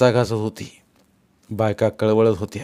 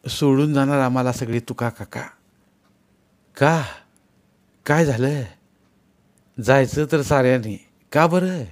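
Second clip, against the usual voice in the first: pleading widow; 4 semitones higher than usual. Acted. Widowed mother begs the pilgrims.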